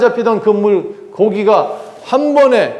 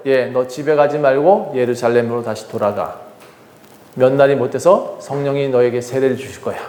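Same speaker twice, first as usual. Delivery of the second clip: gentle Jesus voice; 5 semitones lower, 3 dB quieter than usual. Acted. Jesus sending disciple back.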